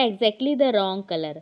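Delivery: spaced out slowly, word by word; slow dictation. Shown as a demonstration. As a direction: read it slowly to the class. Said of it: "फिर क्या?". (धीरे धीरे बोलकर)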